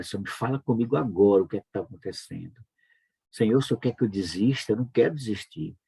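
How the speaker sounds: insistent, mildly desperate retold prayer; urgent pleading with a slight lift in the voice; retold tearful plea. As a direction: beg God for an answer, re-enacting it lightly. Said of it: "E eu, eu chorando".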